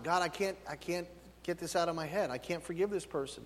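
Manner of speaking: soft, subdued plea to God; hushed admission of struggle; quiet pleading prayer. Acted. Voices a struggling believer's private prayer.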